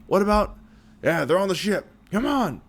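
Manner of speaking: urgent. Acted. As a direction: hurry them forward. Urgent battle talk.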